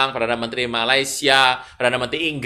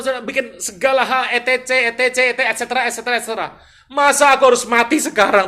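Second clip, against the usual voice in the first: high, loud plaintive protest to God; mock tearful pleading; 9 semitones higher, 8 dB louder than usual. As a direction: plead your record like a wronged, wailing king. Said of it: "Sambil menangis". (memohon lantang, pura-pura meratap)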